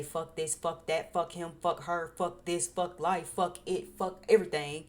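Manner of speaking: mock rant. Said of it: "check in with yourself ... to say".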